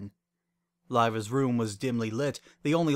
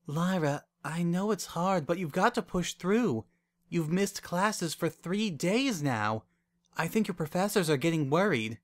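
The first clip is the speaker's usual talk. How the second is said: concerned coaxing; 6 semitones higher than usual. A narrator's reading. Wendy coaxing her heartbroken friend.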